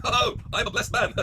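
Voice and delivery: slow, savoring delivery; king gloating over his kingdom; smug slow drawl. Pretend. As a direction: relish every word.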